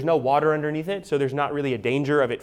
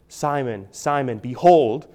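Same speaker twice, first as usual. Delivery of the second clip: slow, affectionate call by name; tender address; 5 dB louder, slower than usual. Acted. Jesus speaking to Simon Peter, tenderly. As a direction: address him tenderly, drawing out the words. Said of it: "He's speaking tenderly to him".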